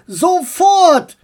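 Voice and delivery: high, loud order; boy orders him to stop; commanding. Acted. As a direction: snap the command at once. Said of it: "befahl Max".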